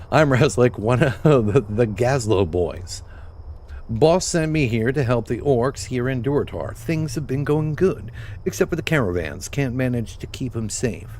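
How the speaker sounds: lightly voiced goblin hustler, a bit brighter and pushier. Goblin quest giver asking the player for help, lightly voiced hustler. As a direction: read the quest like a small-time goblin fixer. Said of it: "That's how I should be reading it".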